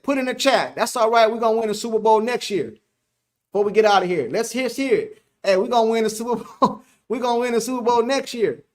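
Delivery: rally the faithful with deluded confidence; playful die-hard fan chant; delusional Cowboy fan. Pretend. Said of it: "be a delusional Cowboy fan".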